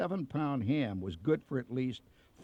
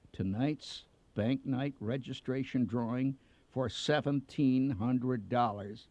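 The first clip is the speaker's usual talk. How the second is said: a hint of a hushed, solemn theatre manager; quiet solemn announcer. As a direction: announce the draw gravely, slowing on the amount. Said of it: "and in a quiet voice".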